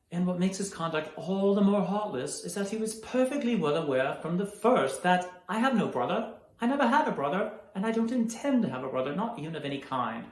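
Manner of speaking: high, affronted insistence; indignant. Acted. Householder denying he has any brother, indignant. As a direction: pile up the denials, pitched high.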